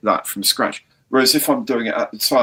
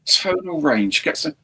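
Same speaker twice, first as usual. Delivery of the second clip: high-pitched pleading for more animation; exasperated self-scolding; 8 semitones higher than usual. Acted. YouTuber berating himself on hearing his recording back, exasperated. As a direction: act out fed-up urging, pitch well up. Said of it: "listen to it back and say".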